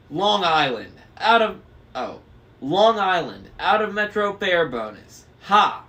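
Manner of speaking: high, loud crone voice; cackling old driver. A narrator's reading. Old driver calling the fare with a loud cackle. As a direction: cackle it like a mad old hag. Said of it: "The one driving said".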